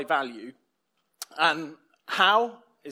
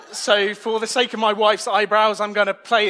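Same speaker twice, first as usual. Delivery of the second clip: laughing; 3 semitones higher, 6 dB louder than usual. Real, not acted. Joking about wife's threat.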